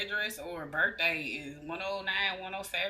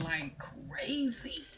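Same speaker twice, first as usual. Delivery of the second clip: hushed; 2 semitones lower, much slower than usual. Real, not acted. Reacting to intense readings.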